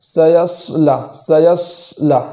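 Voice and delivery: سیصلا with the voice altered to fake ص; change the voice instead of the letter; wrong faked heaviness; changed voice on sad. Shown as a demonstration. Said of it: "آواز بدل کر پڑھتے ہیں".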